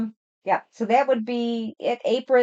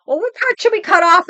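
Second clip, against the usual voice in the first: teasing; 10 semitones higher, 4 dB louder than usual. Retold or imitated. Teasing granddaughter about the dog.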